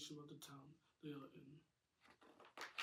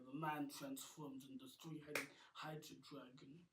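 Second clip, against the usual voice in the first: plain reading voice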